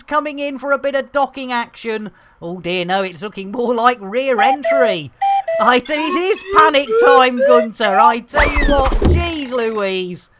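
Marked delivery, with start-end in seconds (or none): 5.6-10.3 mock panic. Real, not acted. Mock alarm while docking goes wrong.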